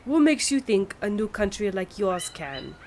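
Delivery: mild put-on French accent, haughty; a sniffy French diplomat, lightly voiced. French envoy doubting the Americans, light French accent. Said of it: "horrible attempt at a French accent".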